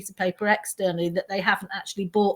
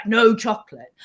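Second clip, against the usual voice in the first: stern command; 5 dB louder than usual. Shown as a demonstration. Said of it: "So rather than to be that".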